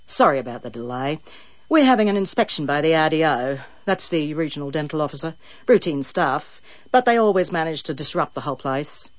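light Australian dentist voice; hint of Australian accent. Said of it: "unreconstructed Australian accent".

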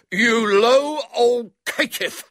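high, loud, drawn-out insult; taunt through keyhole. A narrator's reading. Boy to the man he locked in, taunting. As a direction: hurl the insult slowly and loudly. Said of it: "said William through the keyhole".

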